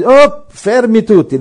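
Oh, fermi tutti called out high, loud and slow; Jesus halting the crowd, calling out loudly and slowly; commanding call. Retold or imitated. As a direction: stop the crowd with a sudden call. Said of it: "E Gesù stava camminando".

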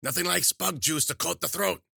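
put-on high-pitched old witch; high, folksy witch doctor. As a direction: chirp it high like a crone. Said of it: "the witch said".

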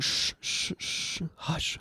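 hushing someone in a whisper; soothing whispered shh; whispered shushing. Retold or imitated. Enemy team hushing downed player.

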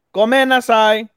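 high, loud mock anime cry; overacted, high-pitched yell; hammed-up apology. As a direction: shout the apology in an exaggerated high voice. Acts out the character's apology cry.

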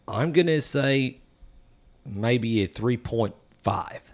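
slow Australian accent, last words whispered; Australian accent, drawn out and breathed. Shown as a demonstration. Scoring the beer for friends in an Australian accent. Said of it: "in my best Australian accent".

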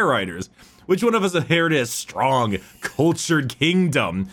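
lightly dramatised bitter warrior's speech; Angron. Acted. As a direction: declaim it as a measured challenge to a rival. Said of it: "a quote from, uh, Angron to Gilliman".

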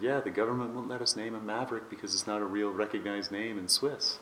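lightly imitated Swiss German accent. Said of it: "in her Swiss accent".

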